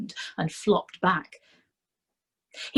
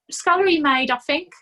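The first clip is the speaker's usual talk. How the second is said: higher, aggrieved little man's whine; self-pitying complaint; whining Nobby; 10 semitones higher, 7 dB louder than usual. A narrator's reading. Nobby complaining to Fred about his bad luck, whining.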